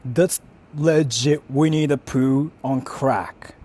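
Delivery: slow, drawn-out disbelief; stunned slow exclamation; disbelieving. Real, not acted. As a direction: stretch every word out in shock. Disbelief at card art.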